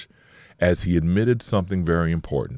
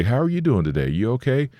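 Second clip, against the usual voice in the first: gentle caring greeting; 7 semitones higher than usual. Retold or imitated. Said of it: "No, you say".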